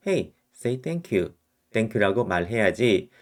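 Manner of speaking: put-on slow, patient prompt to a child; slow coaxing parent. Shown as a demonstration. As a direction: coax a child to say thank you slowly. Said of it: "제가 아이한테 이렇게 합니다".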